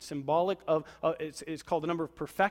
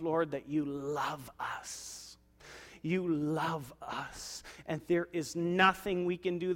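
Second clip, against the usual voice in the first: closing prayer. Acted. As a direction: pray humbly before God.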